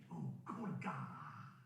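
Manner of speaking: put-on slow, stretched American accent; mock American accent. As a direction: intone it grandly with an American accent. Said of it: "I do it in an American accent".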